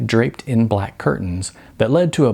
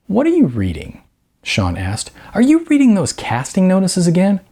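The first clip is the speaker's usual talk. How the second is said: put-on young guy pushing his point, pitched higher; voicing Sean, teasing and higher; Sean's voice; 10 semitones higher than usual. A narrator's reading. Sean prods Jose.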